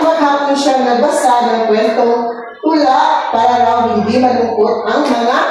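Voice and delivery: masiglang pagbabasa ng kuwento sa mga bata; pagbasa ng kwento. A narrator's reading. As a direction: basahin nang malinaw at buhay, parang guro sa klase. (guro na nagbabasa ng kuwento sa mga bata, masigla)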